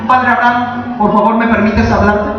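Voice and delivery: politely asking permission, no urgency; mock polite request. Shown as a demonstration. Preacher showing how the rich man did not ask, polite request. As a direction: ask it mildly, as a courteous favour. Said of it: "¿Creen que le dijo".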